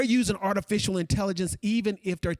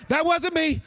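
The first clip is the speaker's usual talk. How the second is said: emphatic denial; 7 semitones higher, 3 dB louder than usual. Real, not acted. Correcting the audience's guess.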